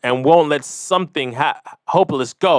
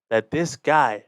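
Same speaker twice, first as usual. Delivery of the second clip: ordinary talk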